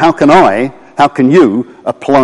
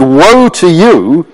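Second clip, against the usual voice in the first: angry rebuke; 3 dB louder than usual. Retold or imitated. Jesus rebuking the Pharisees who treated him as an enemy, mildly angry. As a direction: retell a stern denunciation with controlled anger. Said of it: "In other words, he was angry".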